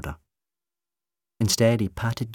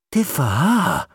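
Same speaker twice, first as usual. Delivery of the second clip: higher, louder shocked echo; aghast; 9 semitones higher, 8 dB louder, slower than usual. A narrator's reading. Rose repeats McCavity's words to him, aghast. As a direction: recoil at the words in disbelief. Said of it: "Rose said, aghast".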